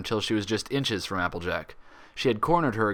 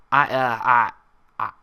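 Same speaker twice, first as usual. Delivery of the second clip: caught-out stammer, louder at first; 4 dB louder than usual. Acted. Applejack caught in a slip by Twilight, flustered stammer. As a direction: fumble the words, flustered. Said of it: "she stammered".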